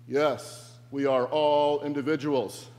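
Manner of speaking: loud mock group chant at normal pitch; crowd responding together. The mob answers Brian all together, chanting loudly. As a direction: answer as an obedient mob in one voice. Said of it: "they all respond together".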